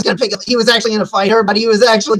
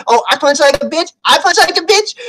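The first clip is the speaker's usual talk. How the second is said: acted affronted question, climbing higher on the repeat; indignant echo; 6 semitones higher than usual. Man told he hits badly, indignant echo. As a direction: echo the insult, mock offended. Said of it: "and he's like".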